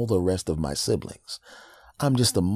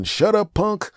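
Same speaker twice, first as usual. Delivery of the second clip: high, loud sneaky scheming dad; dad calling the kids, plotting; 4 dB louder, slower than usual. Retold or imitated. Dad phoning other children about his son, loud high.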